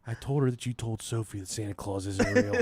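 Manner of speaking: laughing through the punchline; laughing reveal. Real, not acted. Telling a friend the family story, laughing through it. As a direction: let the laugh leak into every word.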